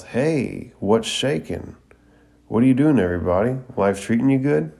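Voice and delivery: lightly voiced big hearty greeting; enthusiastic, confident. A narrator's reading. Guy Sensei greeting the squad, mildly hammed-up enthusiasm. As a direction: greet the crowd with cheerful confidence, lilting up. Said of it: "with that, uh, big, enthusiastic, confident voice".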